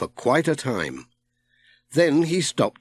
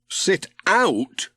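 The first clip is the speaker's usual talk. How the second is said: higher, puzzled echo; Pat puzzled; 7 semitones higher than usual. A narrator's reading. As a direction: repeat the odd words in disbelief. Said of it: "said Pat".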